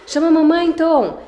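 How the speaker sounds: high, loud coaxing singsong; coaxing child to call mom. Retold or imitated. Dad coaxing toddler to call mom, high and loud. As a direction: cheer the toddler on to say mamãe. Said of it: "o Diogo continua".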